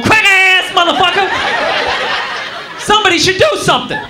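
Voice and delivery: half-shouted insult, mock; hammed-up yelling insult. Stuck man yells at white riders, mock shouting. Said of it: "He's going".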